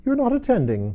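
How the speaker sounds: sharp, high, loud rebuke; severe. A narrator's reading. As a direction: scold her sharply. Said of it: "said the mouse to Alice severely".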